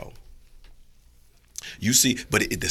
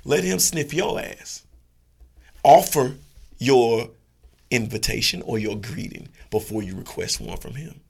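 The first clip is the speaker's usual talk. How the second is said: calm advising dog; 3 semitones higher, 6 dB louder than usual. Acted. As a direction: coach him gently. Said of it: "he would be like".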